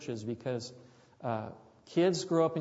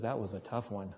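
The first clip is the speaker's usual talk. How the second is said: relieved sigh; 5 semitones lower, 5 dB quieter than usual. Retold or imitated. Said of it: "just almost wilts in relief and he says".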